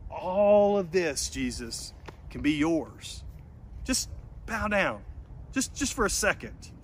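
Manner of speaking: lightly voiced Satan luring Jesus; softly coaxing tempter; Satan tempting.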